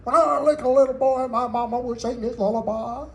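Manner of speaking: singer's voice introducing his lullaby record. Retold or imitated. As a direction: put on a jazz singer's voice for the spoken intro. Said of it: "and he goes".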